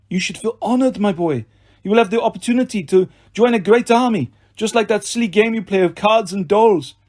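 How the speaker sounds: high-pitched, sneering French villain; mock them with a French accent. A narrator's reading. Doctor reassures little brats, mocking French-accented villain.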